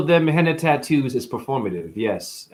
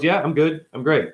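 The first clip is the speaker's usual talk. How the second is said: deadpan; 4 semitones higher than usual. Retold or imitated.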